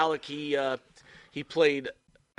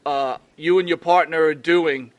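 speaking loud; 5 semitones higher, 13 dB louder than usual. Real, not acted. Host loudly asking the guest to announce his new show. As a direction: project every word to the guest. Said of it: "we need to speak loud".

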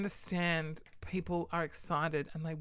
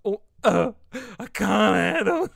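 laugh-crying mock; 3 semitones higher, 12 dB louder, slower than usual. Mock breakdown beside crying employee.

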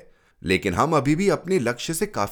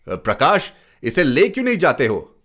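louder, higher scolding question; 5 semitones higher, 4 dB louder than usual. Acted. Father scolds Prakash for not taking the boy, loud. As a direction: snap at the older boy. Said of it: "मैंने डांट कर कहा".

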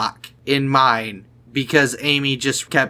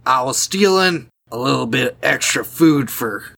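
guard's voice. Acted. Guard bluffing about stealing food, lightly put-on guard voice. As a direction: play a guard explaining himself. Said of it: "do you remember what the guard's voice is".

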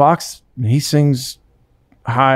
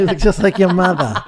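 put-on Cape Cod accent; 4 semitones higher than usual. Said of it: "That's how they talk".

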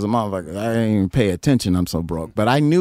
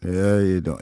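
imitating a singer's low voice; 4 semitones lower, faster than usual. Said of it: "I can't even do it".

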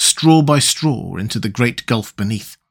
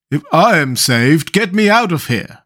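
Jack calling out; 3 semitones higher than usual. Acted. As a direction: plead from under the sofas. Jack's muffled call.

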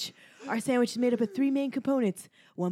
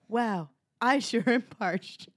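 put-on very slow British commentator accent; a posh British announcer, dragging it out; ping pong commentator; much slower than usual. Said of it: "what is this accent that's going on".

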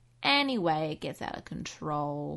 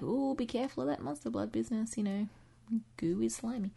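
aunt voice; 4 semitones higher, 4 dB quieter than usual. Retold or imitated. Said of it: "his aunt's all like".

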